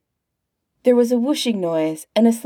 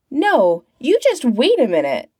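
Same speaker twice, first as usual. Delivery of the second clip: higher-pitched, indignant objection; raised-pitch protest, stressed at the start; 5 semitones higher, 3 dB louder than usual. A narrator's reading. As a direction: cut in with a firm protest. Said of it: "Phelps protested".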